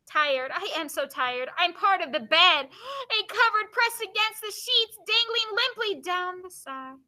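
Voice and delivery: measured reading, slowing in the later lines; poem reading. Acted. Teacher reading free verse about tiredness, slowing recital. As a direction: draw out the verse line by line. Reads poem aloud to class.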